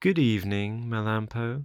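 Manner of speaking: honeyed, sweetly spoken voice. A weasel at the doghouse door greets whoever is inside, in a sweet voice. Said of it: "said in a sweet voice".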